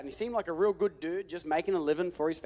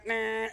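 chain noise; 4 semitones higher than usual. Retold or imitated. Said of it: "and the chain".

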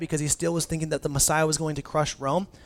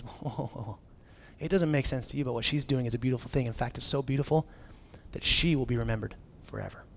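soft, calm and lower, fading to a hush on the last word; gentle Jesus; 3 semitones lower, 6 dB quieter than usual. Retold or imitated. Jesus gently rebuking the disciples, soft and calm. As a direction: settle them down gently. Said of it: "And Jesus says".

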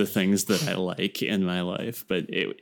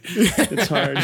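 stifled giggles; 9 semitones higher, 3 dB louder than usual. Real, not acted. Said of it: "I'm trying not to laugh into the mic".

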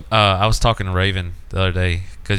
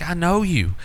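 mocking girlfriend; 8 semitones higher than usual. Girlfriend needles him in retold quarrel.

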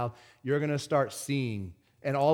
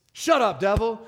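sharp rebuke; 6 semitones higher, 6 dB louder than usual. Acted. Rebuking devil mid-prayer.

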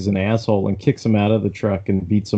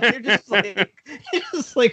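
laughing. Real, not acted. Laughing while retelling.

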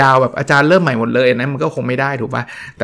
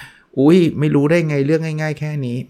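higher, drawn-out disbelieving reproach; slow, raised-pitch mock reproach; mock teacher's scolding; 4 semitones higher than usual. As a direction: act out a teacher's incredulous telling-off. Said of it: "กลัวครูจะดุเอา".

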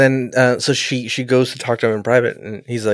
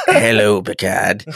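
lightly mocked British accent, a laugh creeping in; 4 semitones lower, much slower than usual. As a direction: greet with a put-on British accent. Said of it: "he's got a British accent".

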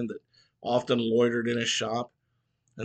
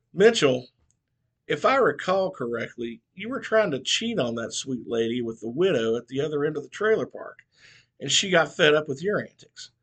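lit into him; 3 semitones higher than usual. Acted. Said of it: "the old barber lit into him".

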